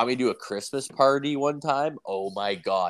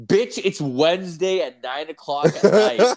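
high, loud, laughing indignation; laughing outrage; 8 semitones higher, 6 dB louder than usual. Retold or imitated. Telling the coke-using girlfriend off, laughing outrage. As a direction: yell it at her through laughter. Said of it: "I'm like".

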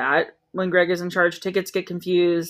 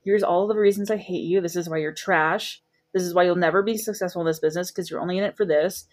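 mock calm voice; 4 dB quieter, faster than usual. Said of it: "saying it in a very calm voice".

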